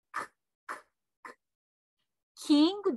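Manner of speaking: voiceless little bursts of "クッ"; K from deep throat. Shown as a demonstration. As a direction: pop "クッ" with no vowel. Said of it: "喉の奥の方をね、意識して".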